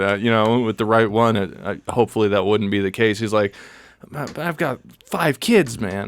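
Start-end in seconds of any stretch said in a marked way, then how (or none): 4.1-6.1 hint of a throaty, tired mechanic-shop stranger; throaty raspy man. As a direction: lightly voice a raspy guy complaining about his lady. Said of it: "more throaty, kinda like raspy voice".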